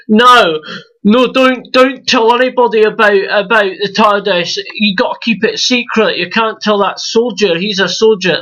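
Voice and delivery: imitating the Doctor in a hammed-up Scottish accent. The Doctor warning Clara to keep the tardis secret, in mock Scottish accent. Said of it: "that's my Scottish accent".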